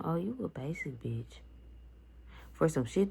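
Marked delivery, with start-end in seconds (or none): 0.0-1.4 whispered mock quote. Retelling cousin's insult.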